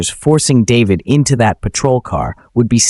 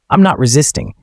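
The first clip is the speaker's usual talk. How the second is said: forced through clenched teeth; tense, jaw locked tight; gritted teeth; 3 semitones higher than usual. Acted. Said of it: "says through gritted teeth".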